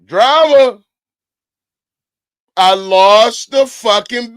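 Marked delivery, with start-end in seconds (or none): 0.0-0.8 shouting the name to chat; calling out. Real, not acted. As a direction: holler the name across the room.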